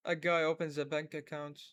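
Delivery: each word read out slowly and clearly; slow model reading. Shown as a demonstration. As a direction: read it slowly so they can copy. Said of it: "أنا راح أبدي أقرأ". (قراءة بطيئة وواضحة للتقليد)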